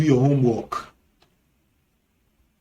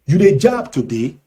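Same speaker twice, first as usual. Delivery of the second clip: Nigerian Pidgin; 5 dB louder, faster than usual. Shown as a demonstration. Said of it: "in Nigerian Pidgin English".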